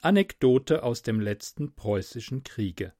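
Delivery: put-on measured, quiet reading of an old anecdote; story narration. Podcaster reads Kleist's anecdote to listeners, calm narration. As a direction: read it like a careful speaking exercise.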